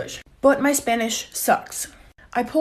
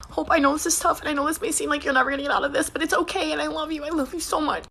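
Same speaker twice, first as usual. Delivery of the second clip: higher, softer mock tearful comfort; imitating a crying sister; 4 semitones higher, 4 dB quieter than usual. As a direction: voice the sobbing sister pleading gently. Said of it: "And she's crying".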